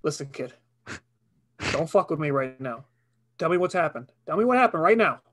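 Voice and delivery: calm warning rising to a yell; stern cop building to shout. Acted. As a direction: lose patience with the witness. Cop grows angry in skit.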